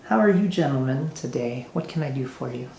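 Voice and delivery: a giddy noble host, all charm; giddy nobleman. Acted. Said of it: "he's got a very giddy attitude".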